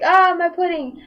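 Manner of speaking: mock wail. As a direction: ham up the kid's lament for his pudding. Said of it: "He was like".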